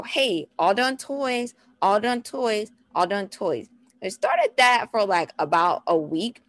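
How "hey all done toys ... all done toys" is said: ALL DONE TOYS repeated as an even chant; same short phrase repeated in steady rhythm; repeated toddler cue. Shown as a demonstration. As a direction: say "all done toys" three times, evenly spaced. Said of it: "three times in a row".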